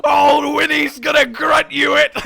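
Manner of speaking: high-pitched mock-heroic bear; Winnie the Pooh. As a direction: put on a high voice, promising grim help to a friend. Voices Winnie addressing Eeyore with sword.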